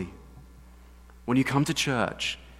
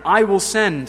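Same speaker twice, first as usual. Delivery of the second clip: higher, louder, slow proclamation; booming declaration; 7 semitones higher, 10 dB louder, slower than usual. Acted. Preacher booming God's words to Moses, slow and loud. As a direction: boom it out slowly. Emphatic God quote.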